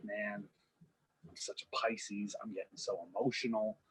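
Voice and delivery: a hint of a moping boyfriend; mopey. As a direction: mutter it like a sulking big guy. John Cena pouting to himself.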